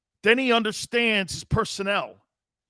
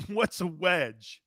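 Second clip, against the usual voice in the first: laughing disbelief; 7 dB quieter, much slower than usual. Retold or imitated. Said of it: "I'm like".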